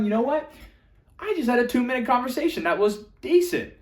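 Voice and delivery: bright, lifted, pleased voice; upbeat self-talk. Pretend. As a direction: cheer yourself on. Upbeat self-talk about a win.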